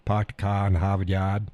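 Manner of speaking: broad Boston-style New England accent. Shown as a demonstration.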